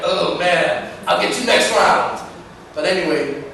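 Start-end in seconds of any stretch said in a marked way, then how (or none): 0.0-2.2 beaten dancer's retort. Retold or imitated. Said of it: "And you're like".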